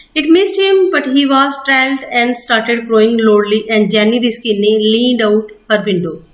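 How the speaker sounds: slow, deliberate textbook reading; measured classroom reading; slow reading aloud. Acted. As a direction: read each word out carefully for students. Reading English text aloud slowly.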